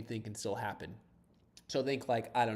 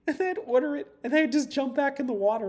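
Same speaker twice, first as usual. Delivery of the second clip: words bubbling with laughter, pitched up high; laughing while telling; 9 dB louder than usual. Real, not acted. Telling viewers about swimming to lunch, laughing. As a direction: laugh your way through the line. Laughing through his swim story.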